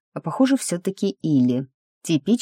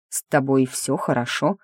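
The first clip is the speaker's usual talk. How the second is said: wary; 2 semitones lower than usual. Acted. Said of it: "спросил он опасливо".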